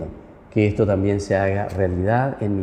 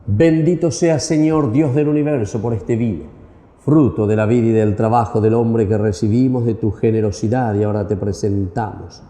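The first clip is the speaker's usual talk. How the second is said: liturgical prayer. Acted. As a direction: intone it like a priest at mass. Priest intones offertory prayer.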